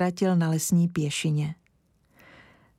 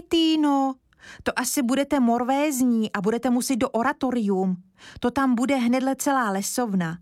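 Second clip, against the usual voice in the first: put-on high, quick boyish pleading; a little boy begging to run outside; eager boy Kája; 4 semitones higher than usual. Kája voiced as child. (vysoký dychtivý chlapecký hlas)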